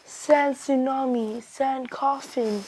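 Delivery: slow, stretched-out move names; acted attack call. Naruto answers with his attacks, slow drawn-out acted call. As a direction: draw out each attack name without shouting.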